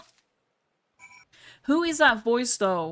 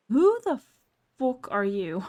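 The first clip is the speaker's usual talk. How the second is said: startled outburst; 3 semitones higher, 3 dB louder than usual. Real, not acted. Startled by unknown voice.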